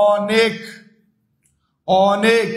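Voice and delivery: অনেক begun with open "aw". Shown as a demonstration. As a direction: say অনেক as "aw-nek". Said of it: "অ এর উচ্চারণটা অ এর মতোই". (অনেক-এ বিবৃত অ)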